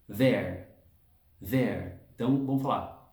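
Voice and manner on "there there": "there" said alone twice, slow and low; isolated word drill. Shown as a demonstration. Teacher isolating "there" for the class, slow model. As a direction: stretch out "there" on its own.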